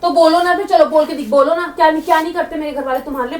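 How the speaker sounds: real, rising irritation at a husband; indignant challenge. Real, not acted. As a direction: press them impatiently to speak up. Wife challenged in staged quarrel. (चिढ़कर चुनौती देते हुए)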